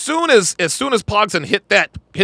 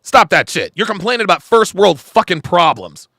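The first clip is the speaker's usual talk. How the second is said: retold scolding; 4 semitones higher than usual. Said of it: "I was like".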